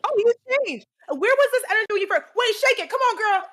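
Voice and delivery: high, loud hype-up cheering; excited cheering. Real, not acted. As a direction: cheer her on loudly. Hyping her to dance.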